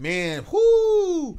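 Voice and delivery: high, loud breathless whoo with a laugh; rattled survivor letting out a laughing whoo; shaken whoo. Retold or imitated. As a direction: blow out the relief, half laughing. People shaken after the accident.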